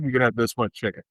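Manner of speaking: fast, flat reply from the expert; curt dietitian answer. Retold or imitated. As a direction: rattle it off like a bored dietitian.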